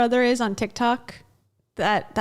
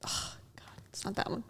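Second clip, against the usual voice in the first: whispered oh God; 15 dB quieter than usual. Real, not acted.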